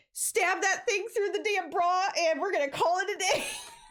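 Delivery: mock frantic, urgent delivery, high and panicked. Retelling asking Josh for a fix before going on stage: retelling own panic. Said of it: "I don't know how my brain works in panic".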